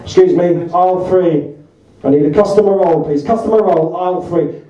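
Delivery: shop intercom call; tannoy announcement. Retold or imitated. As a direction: announce it over the store mic. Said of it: "she said on her mic".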